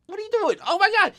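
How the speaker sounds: high squeaky mock exclamation; a light high-pitched imitation of his shocked bit; impression of Solo. Vlogger mimicking a wrestler's shocked face, high-pitched. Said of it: "that face that he does, like".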